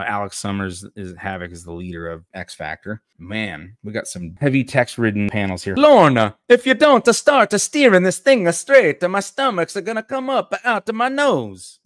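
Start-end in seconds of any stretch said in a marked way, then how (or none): 5.7-11.8 very high, loud cartoon Italian complaint; Guido, stereotyped Italian accent. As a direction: wail in a hammed-up Italian accent. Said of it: "I'm just gonna do stereotypes".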